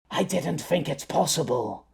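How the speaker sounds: soft, tired mumble; mumbling. Acted. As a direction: mumble it, drifting off. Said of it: "Flicker mumbled".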